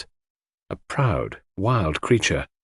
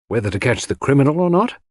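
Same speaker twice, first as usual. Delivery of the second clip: facetious; 4 semitones higher than usual. Acted. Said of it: "I asked facetiously".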